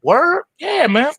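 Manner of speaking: very high excited squeak; surprised word. Acted. Farmer reacts to the offer, high excited squeak. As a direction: pop up in delight.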